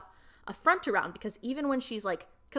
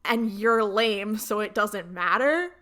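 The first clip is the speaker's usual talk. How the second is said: slower, louder mock-snotty Jade; imitating Jade; 5 dB louder, slower than usual. Retelling Jade's excuse to Tori, mock dismissive and slow. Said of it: "her justification is that it's like".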